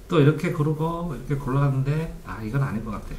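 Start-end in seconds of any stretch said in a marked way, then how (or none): 2.2-3.1 low, soft reader's inner voice; musing to oneself. Acted. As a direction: think it over under your breath. Teacher voices a reader's inner thought. (낮고 작게 혼잣말하듯)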